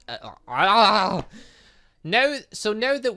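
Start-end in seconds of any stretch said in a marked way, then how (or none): 0.1-1.3 flustered stumble. Real, not acted. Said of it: "uh, so now that we're all with e".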